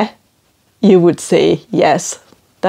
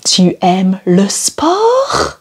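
slow clear question; slower than usual. Shown as a demonstration. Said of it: "Should we try it?".

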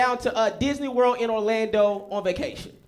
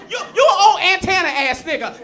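roast him and send him away; a touch of a scornful LA woman; dismissive girl; 5 semitones higher than usual. Retold or imitated.

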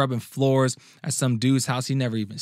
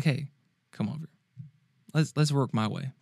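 gentle invitation; 2 semitones higher, 3 dB quieter than usual. Retold or imitated. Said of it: "Very nicely, very gentlemanly".

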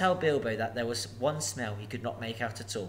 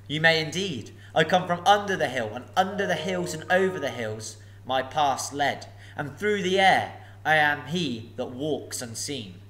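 lightly raised, politely flattering hobbit; a hint of nervous courtesy; 3 semitones higher, 5 dB louder than usual. Bilbo riddles.

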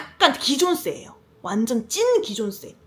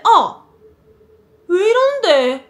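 loud, slow hurt protest; pained cry; 7 semitones higher, 7 dB louder, slower than usual. Retold or imitated. After the umbrella hit her shoulder, pained loud protest. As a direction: cry out at the blow, voice near tears.

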